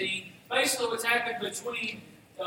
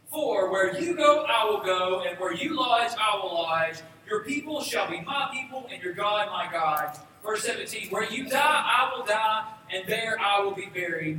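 louder, rising declaration of loyalty; passionate declaration; 4 dB louder than usual. Acted. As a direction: proclaim it like an unbreakable vow. Ruth's vow, read with force.

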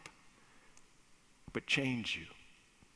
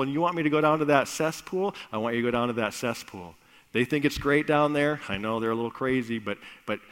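mock reluctance; 4 dB louder, faster than usual. Son protests the cesspool.

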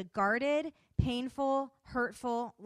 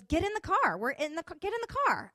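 high, loud retold command; bossy, raised-voice imitation; urgent order; 7 semitones higher, 6 dB louder than usual. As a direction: imitate her insisting, pitch jumping up.

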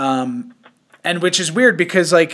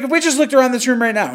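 excited quote; 8 semitones higher, faster than usual. Retold or imitated. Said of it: "he was like".

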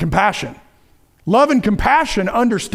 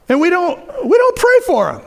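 emphatic preaching; 9 semitones higher, 4 dB louder than usual. Real, not acted.

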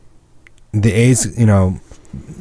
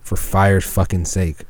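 exasperated pun; 3 semitones lower, 5 dB quieter, slower than usual. Real, not acted.

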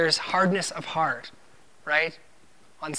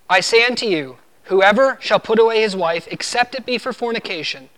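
solemn, measured Bible reading, a little louder; scripture reading; 2 semitones higher, 3 dB louder than usual. Acted. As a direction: read the King James verse with weight. Reads Matthew nineteen nine aloud.

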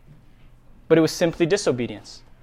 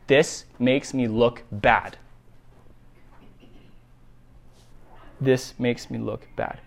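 Jacob's self-concern; 7 semitones lower, 7 dB quieter than usual. Acted. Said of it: "Jacob is only thinking about one thing".

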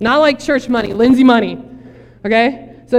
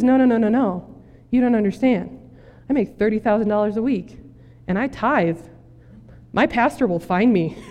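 really calm. Acted. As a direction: play the calm castaway, perfectly untroubled. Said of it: "is, like, really calm".

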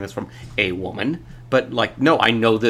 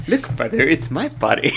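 put-on shrill yell of a teen girl; Janice; 5 semitones higher than usual. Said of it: "It's kind of the same thing".

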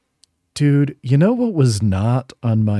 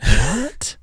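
shocked what; 7 semitones higher, 3 dB louder than usual. Retold or imitated. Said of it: "I'm like".

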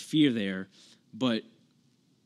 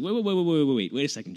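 Elihu, louder and higher, stopping Job mid-rant; urgent interruption; 3 semitones higher, 4 dB louder, faster than usual. Retold or imitated. Friend interrupting Job, a loud urgent halt. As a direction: wait wait wait, jump in loud to halt him.

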